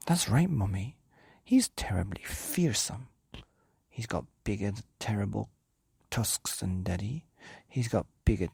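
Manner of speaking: put-on excited child's tattle; breathless child description; eager child. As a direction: build the monster up to mum. Child eagerly tells mum.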